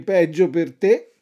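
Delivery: fox voice, rising at the end; sly fox. Acted. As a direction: toss it off like the fox. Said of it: "disse la volpe".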